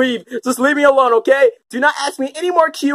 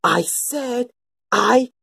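slow repeat; slower than usual. Acted. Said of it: "Can you rephrase that?".

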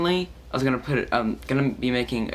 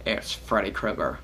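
dumb voice; much slower than usual. Retold or imitated. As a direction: drawl it like a dim-witted dude. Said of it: "I did dumb voices like".

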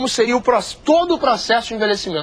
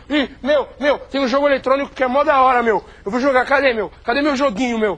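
put-on teenager slang; 4 semitones higher than usual. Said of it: "simular o processo de envelhecimento".

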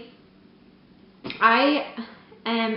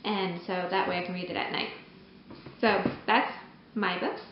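hunched over, cramped posture; crouched down. Real, not acted. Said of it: "like, crouched down".

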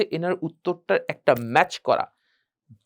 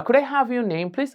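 keen polite ask; with interest; 6 semitones higher, much slower than usual. Shown as a demonstration. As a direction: ask warmly, really curious. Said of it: "খুব আগ্রহ সহিত". (আগ্রহ নিয়ে প্রশ্ন)

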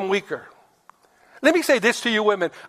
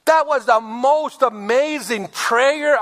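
slow, higher, admiring; gushing praise; 3 semitones higher, slower than usual. Shown as a demonstration. Wife praising her husband's prayer, slow and admiring. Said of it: "The wife should have said".

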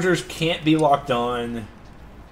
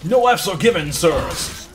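mock posh English; 2 semitones higher, 4 dB louder than usual. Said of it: "Old-timey English".

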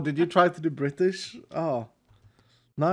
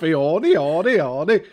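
playful fake Italian lilt, louder; mock Italian-like Swedish; 6 dB louder than usual. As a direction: parody your own Swedish as Italian. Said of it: "That's how we talk".

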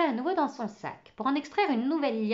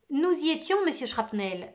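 ton allègre; 6 semitones higher, 5 dB louder than usual. Acted. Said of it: "d'un ton allègre".

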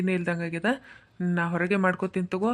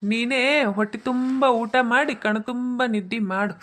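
slow, louder, higher angry jab; angry retort; 4 semitones higher, 4 dB louder, slower than usual. Acted. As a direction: spit it out resentfully. Angry son quarrels with wife.

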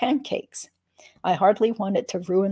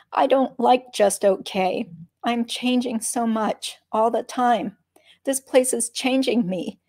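anxious pleading; 4 semitones higher than usual. Acted. Lily pleads about changing.

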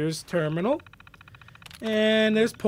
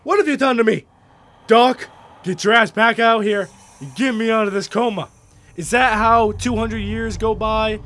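loud, indignant demand; mildly furious protest; outraged; 2 semitones higher, 5 dB louder than usual. Acted. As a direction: demand answers from the doctor, loudly. Acted outrage at being put in coma.

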